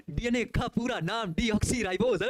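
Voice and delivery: slow, halting parroted read of a definition; mock rote reading. Teacher mocking rote learners to his students, slow parroted read. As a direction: imitate a student reciting mechanically without understanding. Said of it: "वो भी ऐसे ही पढ़ेगा".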